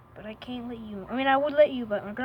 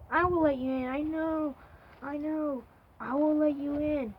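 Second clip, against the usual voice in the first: pleading with a cat; 4 semitones higher, 4 dB louder than usual. Real, not acted. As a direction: coo it to a cat, pitched up. Cooing apologetically to a stray cat.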